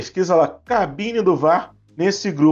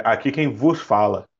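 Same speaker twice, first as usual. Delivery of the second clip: low captain voice, stress on vos; pilot over the radio; 6 semitones lower than usual. Retold or imitated. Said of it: "Mas a maioria é sempre assim mesmo".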